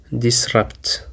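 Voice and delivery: disrupt said dis-RUPT, second syllable stressed. Shown as a demonstration. Teacher modelling stress for learners, dis-RUPT. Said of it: "the stress is on the second syllable".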